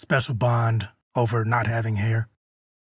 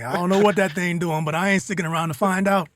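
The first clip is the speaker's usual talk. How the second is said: tough henchman voice; 7 semitones higher than usual. Retold or imitated. Henchmen fleeing, acted quote.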